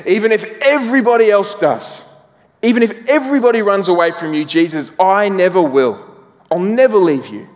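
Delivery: high, fast, loud brash vow; boastful Peter. Retold or imitated. Preacher voicing Peter's boast to Jesus, eager and brash. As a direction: swear it like a cocky disciple who knows better.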